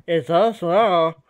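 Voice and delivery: high, loud, slow squirrel with mouth full; tiny squirrel voice. Acted. Game master as squirrel caught eating, mouth-full squirrel voice. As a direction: squeak it out through a stuffed mouth. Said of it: "in a tiny squirrel voice".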